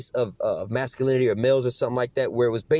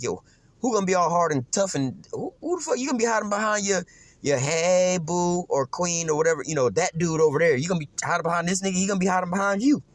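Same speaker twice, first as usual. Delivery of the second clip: higher, mocking woman asking who protects her; mock woman's voice; 5 semitones higher than usual. Man voicing women questioning weak men, higher and mocking. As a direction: taunt it in a put-on voice.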